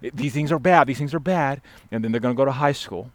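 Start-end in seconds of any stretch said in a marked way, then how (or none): 0.0-1.6 raised-pitch rattle of prohibitions; mock overprotective parent. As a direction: parody a parent listing forbidden things. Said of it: "Disney Channel Christian cocoon saying".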